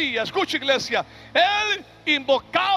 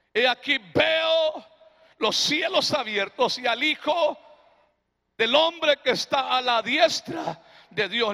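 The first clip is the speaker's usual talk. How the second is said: Stephen's vision shouted. Acted. Preacher voicing Stephen's vision to the congregation, shouted. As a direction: cry out what you see in the open heavens. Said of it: "y dijo".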